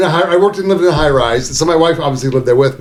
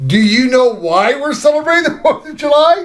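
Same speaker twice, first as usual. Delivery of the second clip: high, pointed wife voice; pointed question; 8 semitones higher than usual. Retold or imitated. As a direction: ask it like a gotcha. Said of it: "She goes".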